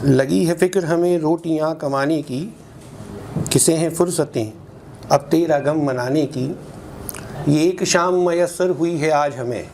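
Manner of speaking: measured Urdu mushaira recital; poetry recitation. Acted. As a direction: recite the couplet line by line, pausing between phrases. (शायरी का ठहराव भरा पाठ)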